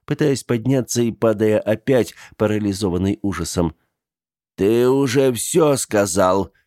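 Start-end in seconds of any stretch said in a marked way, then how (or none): 4.6-6.5 contemptuous and dry. Acted. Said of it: "презрительно и сухо проговорил старик".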